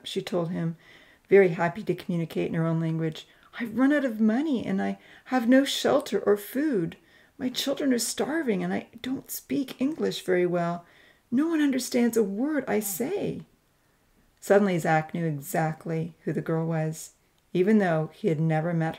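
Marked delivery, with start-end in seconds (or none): 3.6-13.4 lightly voiced woman in distress, higher pitch; a touch of desperation; distressed young mother. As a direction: plead her hardship in a higher voice.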